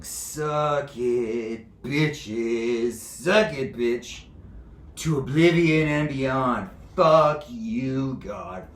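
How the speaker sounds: loud, drawn-out jeer; defiant taunt. Acted. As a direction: hurl it at heaven, stretching the words. Acts out sinner defying God.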